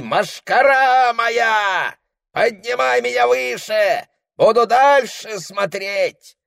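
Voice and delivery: high, slow visionary calling; a seer reporting from far away; shaman's trance voice. Acted. Shaman tells the tent what he sees, high and slow. Shaman describes his spirit journey.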